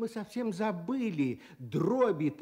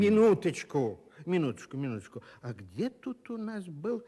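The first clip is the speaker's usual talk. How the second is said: flustered. Acted. Teacher stalls, looking for dictionary.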